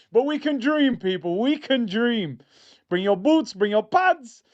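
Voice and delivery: rally the fans to dream; excited rallying. Real, not acted.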